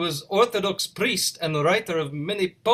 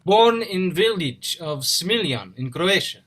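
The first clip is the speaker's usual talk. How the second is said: slow and clear. Acted. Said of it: "talk into my ear".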